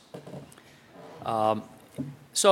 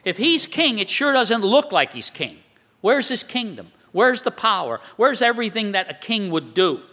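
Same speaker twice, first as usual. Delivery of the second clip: higher-pitched, mock-incredulous questioning; skeptical challenge; 3 semitones higher than usual. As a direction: voice the doubting world, demanding proof. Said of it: "This is what the world says".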